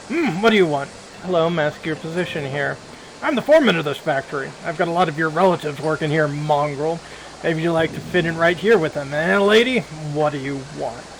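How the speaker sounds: factory foreman belittling the half-orc visitor; sneering foreman. Acted. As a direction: talk down to her like a smug boss. Foreman talks down to player.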